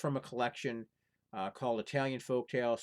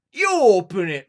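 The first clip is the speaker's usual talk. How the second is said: higher, loud talk-back; defiant retort; 8 semitones higher, 18 dB louder than usual. Acted. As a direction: toss the order back at the giant. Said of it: "replied Little John".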